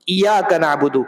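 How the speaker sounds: ایاک with one short ی, no doubling; wrong single ya. Shown as a demonstration. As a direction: rush past the shadda in ایاک. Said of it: "ایک ہی یا آپ نے پڑھا نا".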